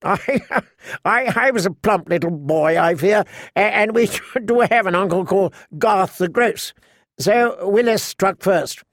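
amused knight telling on himself; laughing. Acted. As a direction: laugh your way into a silly boyhood tale. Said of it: "Sir Garland laughed".

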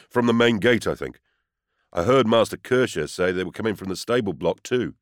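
loud urgent report; urgent answer. Acted. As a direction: blurt it out urgently. Frightened houseman answers urgently.

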